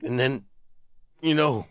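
low, hushed, halting confession; shaken whisper. A narrator's reading. Terrified soldier fearing the others will hear, hushed. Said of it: "speak in a shaken whisper".

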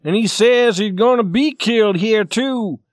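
loud, high, exasperated explanation; angry. Acted. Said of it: "gathering them together angrily".

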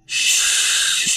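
soft unvoiced shush; whispered shush. A narrator's reading. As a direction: hush the others in a whisper. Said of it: "they said to each other".

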